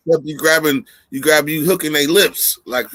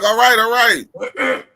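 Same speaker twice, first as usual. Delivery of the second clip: mock tap out; 5 semitones higher, slower than usual. Tapping out under a hold.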